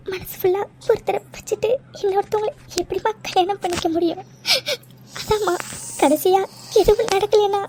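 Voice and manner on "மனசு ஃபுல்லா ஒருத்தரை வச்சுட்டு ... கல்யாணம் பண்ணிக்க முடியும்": tearful plea. Acted. Daughter pleading, crying.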